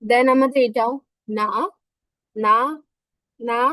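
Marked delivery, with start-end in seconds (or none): 1.4-3.6 "না" as a short fourth-tone syllable; pronunciation demo. Shown as a demonstration. Teacher models the Chinese word for "that", pronunciation demo. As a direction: repeat "না" singly, short and separate. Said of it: "এরকম টাইপের উচ্চারণ হবে".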